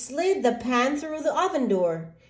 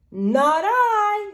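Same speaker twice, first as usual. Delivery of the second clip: refusing dog; 11 semitones higher, 5 dB louder than usual. Acted.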